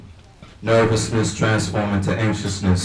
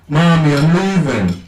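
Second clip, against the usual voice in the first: higher, louder call to mom; shouting; 7 semitones higher, 5 dB louder than usual. Retold or imitated. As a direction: call it out through the house. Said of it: "I screamed my deep morning voice".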